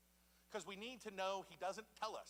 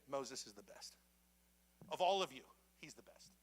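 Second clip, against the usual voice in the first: God's voice; 5 semitones lower than usual. Retold or imitated. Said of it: "he's saying".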